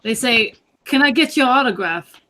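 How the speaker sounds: slow, deliberate Walken-style drawl; lightly voiced Walken, dragging the words; Christopher Walken impression. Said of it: "Christopher Walken".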